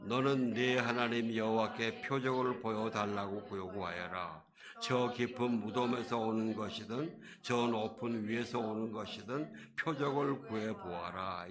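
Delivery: measured, level unison-reading voice; scripture read aloud. Real, not acted. Preacher leading the congregation through verse eleven, measured recitation.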